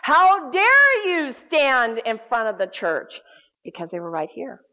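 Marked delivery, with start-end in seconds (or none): 0.0-3.1 loud, slow demonic accusation; menacing voice. Retold or imitated. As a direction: thunder it slowly like an accusing demon. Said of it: "it said it a third time".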